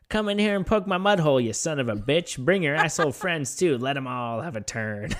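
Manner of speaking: lightly voiced old woman, querulous and lost; a hint of a lost, querulous old lady calling out. Old woman calling through the door, querulous and lost. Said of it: "querulous and certain and utterly lost".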